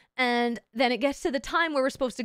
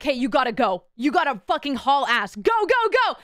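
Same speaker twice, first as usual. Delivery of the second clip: urging instructor; 5 dB louder than usual. Retold or imitated. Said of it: "so he's like".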